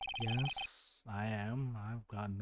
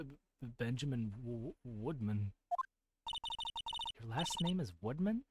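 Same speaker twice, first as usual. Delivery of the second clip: nervous stuttering man. Acted. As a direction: stammer every word shyly. Nervous stuttering ventriloquist Ben.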